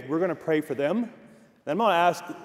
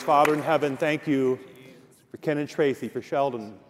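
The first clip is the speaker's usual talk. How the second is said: prayer. Real, not acted. Pastor leads a prayer.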